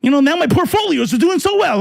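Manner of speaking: a sneering parody of a rich voter bragging about his stocks; mocking Trump supporter.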